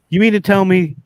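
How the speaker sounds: high, loud mock disbelief; imitating the homeowner's high shocked voice; stunned old lady. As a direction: voice her amazement big. Old lady's disbelief retold.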